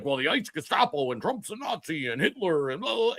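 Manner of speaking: put-on sneering parody of a young liberal; mock her slogans dismissively; lightly voiced, dismissive mimicry of a blue-haired teen; mocking daughter. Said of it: "And she's like".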